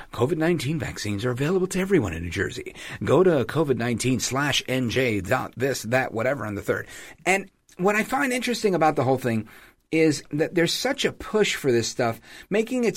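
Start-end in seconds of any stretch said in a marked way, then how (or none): 0.1-6.9 smooth quick ad announcer; cool announcer. Retold or imitated. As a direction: sell it like a slick radio spot. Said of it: "clever announcer comes out and says".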